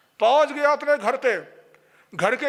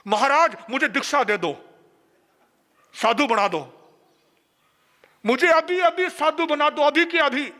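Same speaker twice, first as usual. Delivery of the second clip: pleading call; 4 semitones higher, 4 dB louder than usual. Retold or imitated. Man begging the monk for initiation.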